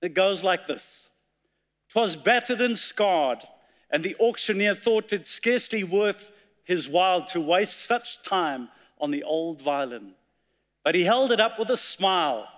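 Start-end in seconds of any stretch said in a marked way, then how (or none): 1.9-12.5 measured, dramatic poem reading; poem recitation. Acted. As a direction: recite it like a storyteller at the pulpit. Recites poem The Old Violin.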